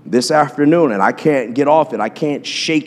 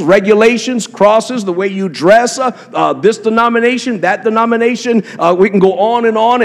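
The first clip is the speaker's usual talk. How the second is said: rising preacher fervor; 5 semitones higher than usual. Acted. Pastor driving the point home to the congregation, fervent. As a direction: preach it hard, building to a peak. Preaching builds to full force.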